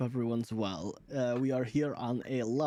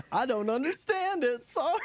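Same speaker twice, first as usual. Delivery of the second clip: confused creature voice; 12 semitones higher than usual. Pretend.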